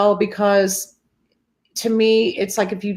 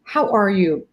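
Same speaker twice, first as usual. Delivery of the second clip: genuinely caring. Shown as a demonstration. Friend with a hand on a shoulder, genuinely caring. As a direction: ask it gently, really wanting to know. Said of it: "I really genuinely wanna know".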